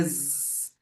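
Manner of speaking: soft, long "Z"; low sustained buzz on "Z"; little bee buzz. Shown as a demonstration. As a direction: hold zzz like a bee. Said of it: "da abelhinha".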